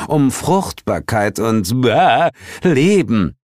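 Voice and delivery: high-pitched, exasperated character voice; high voice of an irritated underworld ruler; Heel, indignant. Acted. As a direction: lecture them in a high, put-upon voice. Heel lectures them in figure voice.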